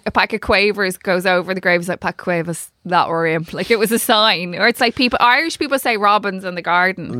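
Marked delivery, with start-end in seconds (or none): 2.0-3.5 lightly imitated northern English comic; deadpan and lower, quoting a comedian's bit; Peter Kay. Retelling a comedy routine about a funeral, Peter Kay. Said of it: "the Peter Kay thing".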